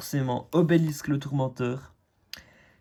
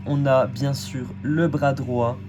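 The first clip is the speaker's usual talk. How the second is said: slow and loud, building hype; excited reveal; 4 dB louder, slower than usual. Real, not acted. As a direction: announce each card with awe. Reveals Exodia cards.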